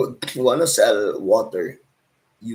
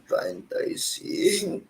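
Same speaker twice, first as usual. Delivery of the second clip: chicharon vendor's call; 6 semitones lower than usual. Shown as a demonstration. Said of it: "It's like this".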